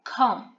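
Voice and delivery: "comb" said as kom, no B at the end; silent B. Shown as a demonstration. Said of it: "so we say comb".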